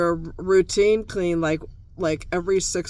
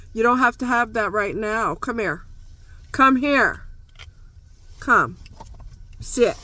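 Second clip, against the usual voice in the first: dog commands; 4 semitones higher than usual. Real, not acted. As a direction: order the dog to come and sit.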